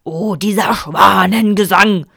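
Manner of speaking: slow, breathy awed whisper; whispered lament. A narrator's reading. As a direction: sigh it out, spent and moved. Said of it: "erklärte der Vater Löwenhaupt". (geflüsterte Klage)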